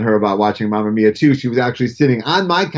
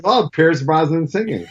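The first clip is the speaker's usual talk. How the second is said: a laughing, half-shouted punchline; laughing quip; 6 semitones higher than usual. Retold or imitated. Father answering his daughter with a laughing quip. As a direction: bark the joke out through a laugh. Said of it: "And I said".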